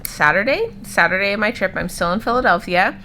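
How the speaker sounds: talking with a retainer in; slightly lispy retainer speech; wearing a retainer. Real, not acted. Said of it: "sorry, I still have my retainer in".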